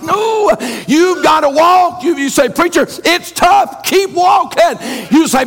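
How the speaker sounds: rising shouted preacher's call and response; preaching at full force. Acted. Pastor urging his church to keep walking, fervent shouted preaching. Climax of sermon, exhorting congregation.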